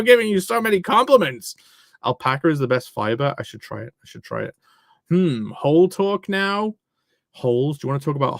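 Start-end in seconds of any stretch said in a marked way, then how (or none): 4.0-4.5 unvoiced whisper of the same line. Shown as a demonstration. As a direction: breathe it out unvoiced. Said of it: "repeated in a whisper".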